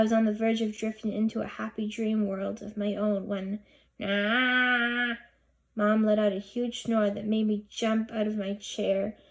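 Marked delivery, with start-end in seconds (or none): 4.0-5.2 startled. A narrator's reading. Startled by snore.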